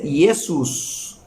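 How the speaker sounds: Jesús said slowly as "eh-soos"; Jesús as Latin Iesus; Latin pronunciation. Shown as a demonstration. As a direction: give Jesús a Latin sound "esus". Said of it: "en latín se dice".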